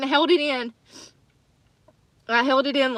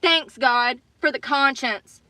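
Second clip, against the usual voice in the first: dry, bitter sarcasm; sarcastic thanks; slower than usual. Real, not acted. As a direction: thank God with bitter irony.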